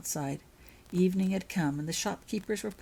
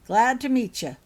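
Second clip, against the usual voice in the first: lightly voiced giant; 6 semitones higher, 10 dB louder than usual. Hagrid greeting Holly.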